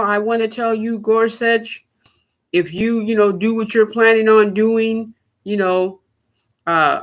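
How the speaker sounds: hammed-up ranting politician; a mock rant at the judges. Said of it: "let's talk about the Democrats that have ranted and raved".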